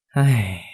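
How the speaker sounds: acted sigh, falling away; long sigh. A narrator's reading. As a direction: let out a weary sigh. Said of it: "ông bà thở dài một hơi". (thở dài não nề)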